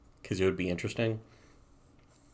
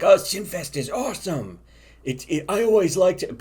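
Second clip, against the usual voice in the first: high, louder gushing new fan; mock fanboy gush; 10 semitones higher, 4 dB louder than usual. Four chan readers praising the comic, high mock gushing. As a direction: gush like a sudden convert. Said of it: "People from four chan would be like".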